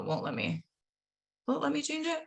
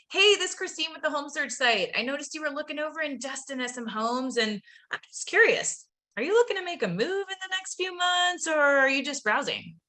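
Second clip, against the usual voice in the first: bright, higher sales-call pitch that climbs on the question; upbeat sales pitch; 5 semitones higher than usual. Shown as a demonstration. Trainer showing reps the opening line, salesy pitch. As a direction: pitch it like an eager telemarketer. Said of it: "Does that sound, like, super salesy?".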